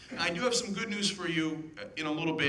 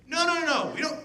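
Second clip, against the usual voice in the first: mock dismissive reply; 11 semitones higher, 5 dB louder than usual. Mock Republican answer.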